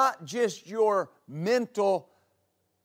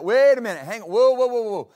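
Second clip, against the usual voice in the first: a louder, higher sudden halt; mock alarm; 4 semitones higher, 6 dB louder, faster than usual. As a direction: stop the thought short, like a startled check. Acting out resisting a thought.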